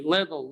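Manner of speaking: little said as liddle; American flap t. Shown as a demonstration. Teacher drilling learners, d sound in little. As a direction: turn the tt in little into a d. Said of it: "Repeat after me".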